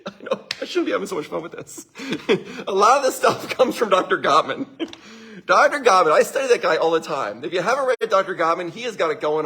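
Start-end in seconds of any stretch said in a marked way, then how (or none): 0.0-6.1 amused chuckling. Real, not acted. Amused at his own fun.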